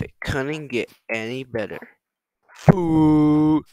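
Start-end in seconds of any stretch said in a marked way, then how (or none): 2.5-3.6 a loud, high "Food."; pleased shout at finding food; excited cry. Real, not acted. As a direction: call it out happily.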